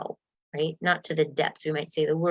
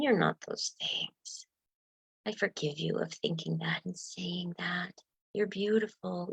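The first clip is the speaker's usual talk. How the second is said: tender self-forgiveness; 3 semitones higher than usual. Acted. Speaking tenderly to inner self.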